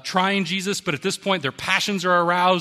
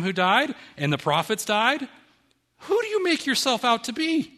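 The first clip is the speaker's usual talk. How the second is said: raised, challenging voice of the accusing crowd; indignant accusers; 4 semitones higher than usual. Acted. Preacher voicing the Jews accusing Jesus, raised and indignant.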